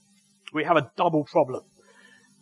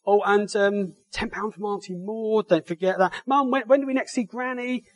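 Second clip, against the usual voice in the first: put-on eager child; 4 semitones higher than usual. Preacher voices eager child asking money.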